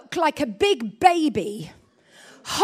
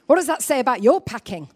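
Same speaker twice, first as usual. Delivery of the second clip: husband lecturing; 4 dB louder than usual. Retold or imitated. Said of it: "And he goes".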